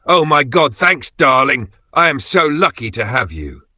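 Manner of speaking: high, loud squeal of joy; breathless delighted shriek. Acted. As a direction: gush like she just won everything. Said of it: "She screamed with laughter".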